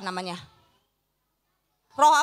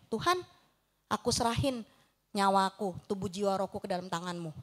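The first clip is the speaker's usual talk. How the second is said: much softer, surrendering prayer; inner prayer; 7 semitones lower, 8 dB quieter than usual. Retold or imitated. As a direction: barely voice it, as if praying silently. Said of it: "dalam hati doa gini". (doa dalam hati yang sangat lirih)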